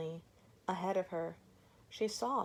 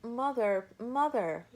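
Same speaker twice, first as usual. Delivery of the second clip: lightly voiced children, calling out louder; crying out; 5 semitones higher, 5 dB louder than usual. Children cry out to their mother in excitement. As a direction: glad children call out. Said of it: "they cried".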